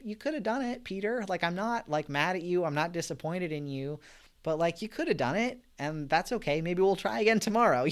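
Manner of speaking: lightly voiced kind Jesus, easing his worry; compassionate Jesus. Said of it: "in an understanding, compassionate way".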